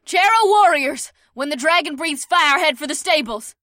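loud, very high woman's battle order; commanding call. A narrator's reading. Leader orders her warriors to the stables, calling out. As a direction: call it out to the troops, high and forceful.

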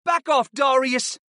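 high, slow student's voice; drawn-out warning, pitched well up; boy warning off a classmate; hissed warning. A narrator's reading. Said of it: "Artie hissed".

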